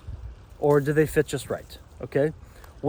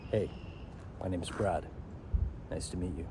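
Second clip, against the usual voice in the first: lower, softer deep-chest greeting; speaking from the diaphragm; 7 semitones lower, 10 dB quieter than usual. Shown as a demonstration. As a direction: drop it down into the chest and introduce yourself. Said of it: "when you basically speak this way".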